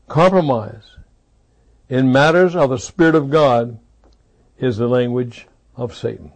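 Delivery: «Compromise in matters of the Spirit of God is the language of Satan» slowly and deliberately, with a pause after each part; each phrase set apart. Shown as a demonstration. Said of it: "Let me say that slowly".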